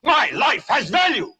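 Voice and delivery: demanding to be heard, shouting; angry shout. Acted. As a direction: shout it like a man fed up. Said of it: "You've got to say".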